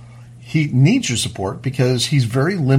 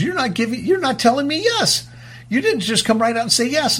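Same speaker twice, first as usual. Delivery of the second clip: quoting a man; 10 semitones higher than usual. Retold or imitated. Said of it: "He goes".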